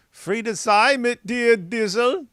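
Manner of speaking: a bright, drawn-out shoutout; upbeat shoutout. Real, not acted. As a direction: sing out the donor's name gladly. Reading donor name aloud.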